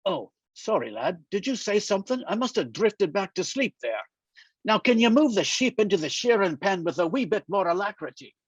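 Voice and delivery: put-on a light Scottish lilt for the old friend Angus, dryly amused; lightly voiced wry Scotsman, ribbing his pal; teasing Scottish friend. Old Scottish friend needling Daniel, light dry Scottish lilt.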